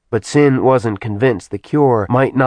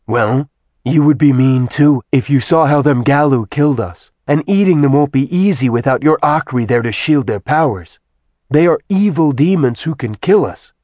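louder, rougher demon woman; gruff demon voice; 5 semitones higher, 5 dB louder than usual. A narrator's reading. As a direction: defend herself with a growl. Zarina character voice.

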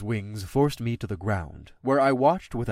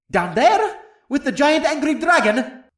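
high, startled dragon voice; can't believe the order; incredulous dragon; 14 semitones higher, 6 dB louder than usual. Acted. Dragon questioning his rider, startled and high.

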